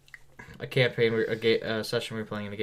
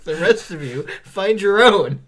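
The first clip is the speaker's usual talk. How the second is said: higher and louder bossy quote; imitating a huffy order; mock telling-off; 8 semitones higher, 9 dB louder, slower than usual. Imitating the co-host scolding the players, mock bossy.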